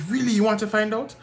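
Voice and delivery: imitating an astonished clerk, high and loud; surprised woman. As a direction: squeak out the surprise of a woman who can't believe it. Ghanaian woman surprised at request.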